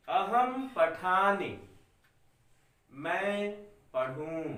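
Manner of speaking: slow, spaced-out reading for the class to follow; slow dictation. Shown as a demonstration. Teacher dictating Sanskrit lines to students, slow and clear. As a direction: spell it out slowly so children can write along. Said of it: "मैं धीरे धीरे बोल रहा हूं बच्चों".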